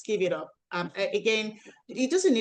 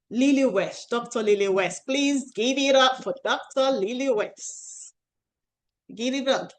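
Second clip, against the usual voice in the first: hyped introduction; 5 semitones higher, 5 dB louder than usual. Real, not acted. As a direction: build up the crowd for the guest. Host introducing guest speaker.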